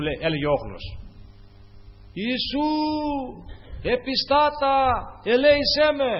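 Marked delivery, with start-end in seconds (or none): 2.1-6.1 high, loud plea for mercy; crying out. Acted. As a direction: cry out insistently, word by word, to be heard over a crowd. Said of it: "Πιο πολύ φώναζε". (ικετευτική κραυγή, ψηλά και δυνατά)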